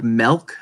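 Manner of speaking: milk said as "melk"; own mispronunciation. Shown as a demonstration. Showing a word that is hard to say, mispronounced. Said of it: "I say milk instead of milk".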